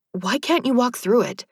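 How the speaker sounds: surprised. A narrator's reading. Heroine calling, surprised.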